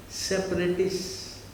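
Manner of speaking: "separatists" stretched out slowly; slow emphasis. Real, not acted. Teacher introducing the key word to students, slow emphasis. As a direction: draw out each syllable of "separatists".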